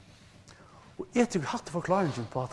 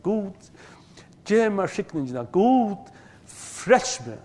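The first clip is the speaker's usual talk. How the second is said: pleading cry; 5 semitones higher, 5 dB louder, slower than usual. Acted. Esau cries out to God.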